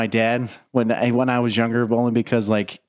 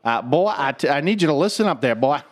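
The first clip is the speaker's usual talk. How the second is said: rooster impression. Foghorn impression banter.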